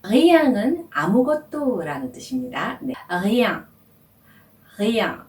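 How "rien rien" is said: "rien" with a throaty R and nasal ending; French rien. Shown as a demonstration. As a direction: say "rien" clearly, nasal at the end. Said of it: "이렇게 발음합니다". (비음으로 끝나는 "rien")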